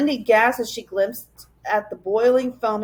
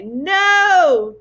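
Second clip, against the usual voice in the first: higher, louder cry of dismay; anguished cry; 8 semitones higher, 6 dB louder than usual. A narrator's reading. The professor facing the monster, crying out. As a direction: bellow it in despair. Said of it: "he cried".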